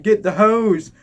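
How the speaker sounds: high panicked yell, slowing on the repeat; mock panicked shout for the hose. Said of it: "yelling is like".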